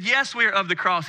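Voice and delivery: confident, clear reply; firm and sure. Retold or imitated. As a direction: say it boldly, with conviction. Firm answer to stranger.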